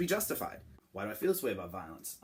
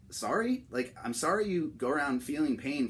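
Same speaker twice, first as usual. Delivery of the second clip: sarcastic sorry; 3 semitones higher than usual. Acted. Sarcastic mock apology.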